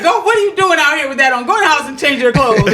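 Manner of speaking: a hint of a bossy kid; demanding boy. Boy scolding his crush, mildly demanding. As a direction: order her inside, a touch insistent. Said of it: "The way he did it".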